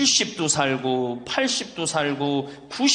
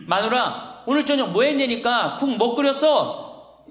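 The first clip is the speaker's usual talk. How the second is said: higher-pitched, mildly exasperated husband; acted impatient call; irritated calling; 6 semitones higher than usual. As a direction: call out to an unresponsive wife. Irritated husband asks wife again.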